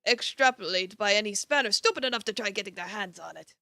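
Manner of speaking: Irish hag slipping into New York; gruff New Yorker edge; New York accent. Acted. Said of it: "can't stop New Yorkin".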